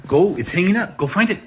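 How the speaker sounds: high, bouncy commands to a dog; excited urging. Real, not acted. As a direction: cheer the dog on with rising pitch. Urging dog to fetch leash.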